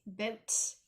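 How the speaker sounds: exaggerated Canadian BOOT, vowel drawn out slowly; mock Canadian accent. Shown as a demonstration. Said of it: "my Canadian accent comes out".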